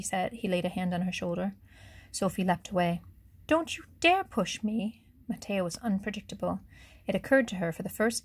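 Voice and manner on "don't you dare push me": much higher, slow, scared; frightened warning. A narrator's reading. Sophie recoiling from Matteo on the roof edge, higher and scared. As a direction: warn him off, frightened. Sophie leaps away in fear.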